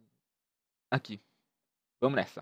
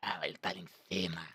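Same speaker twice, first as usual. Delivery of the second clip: whispering; 9 semitones lower, 10 dB quieter than usual. Real, not acted. Spotting hidden enemy.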